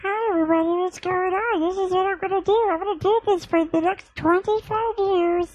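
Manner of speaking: Elmo voice. Acted. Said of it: "to do the voice?".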